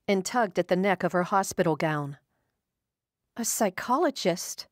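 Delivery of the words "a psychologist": psychologist? lifted higher in a startled question; alarmed echo. A narrator's reading. Frightened patient echoing the doctor's job, alarmed. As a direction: repeat the word as if it frightens you.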